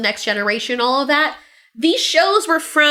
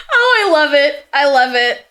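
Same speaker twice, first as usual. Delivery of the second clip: laughing delight; 3 dB louder than usual. Real, not acted. Still laughing.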